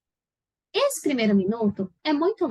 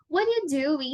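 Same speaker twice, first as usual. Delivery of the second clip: "What are you doing?" echoed as a natural question; linked-up "What are you doing?" with copied question intonation; 2 semitones higher than usual. Shown as a demonstration. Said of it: "você fala assim também".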